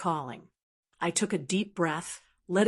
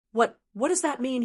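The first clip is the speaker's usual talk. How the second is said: sputtering; 4 semitones higher than usual. Acted. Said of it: "he sputtered".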